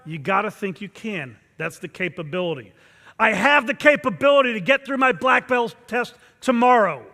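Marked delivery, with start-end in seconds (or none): 3.2-7.0 loud, powerful declaration; intense incantation. Shown as a demonstration. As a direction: make the whole body believe it. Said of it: "Everybody should be saying it like him".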